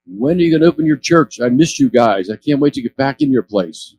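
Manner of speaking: big guy calling out from his wheelchair, glad to see them; retold excited yell. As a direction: shout it happily across the street. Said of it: "he's screaming at us".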